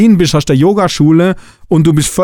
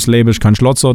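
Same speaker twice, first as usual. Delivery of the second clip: the saying in light Swabian, Schlotzer said the Swabian way; a mild Swabian version of the proverb; Swabian dialect; 2 semitones lower, faster than usual. Shown as a demonstration. Coach gives the Swabian version, lightly Swabian. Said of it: "oder auf Schwäbisch".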